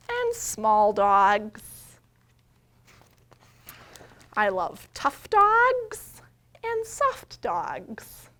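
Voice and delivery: slow, loud storybook reading; reading to children. A narrator's reading. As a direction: read each page out slowly to the little ones. Reads picture book to children.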